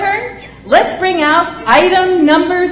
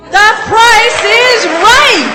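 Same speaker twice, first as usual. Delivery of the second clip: booming prize announcer; 7 semitones higher, 4 dB louder, much slower than usual. Acted. Game show host reveal.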